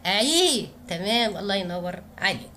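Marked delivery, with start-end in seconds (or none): 0.0-0.7 slow teaching demo. Shown as a demonstration. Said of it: "وخلينا العين مكسورة".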